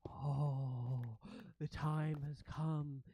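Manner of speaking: slow, solemn creature voice; a touch of slow awe; rat prince. Acted. Rat prince hearing of passage into the city, slow awed voice.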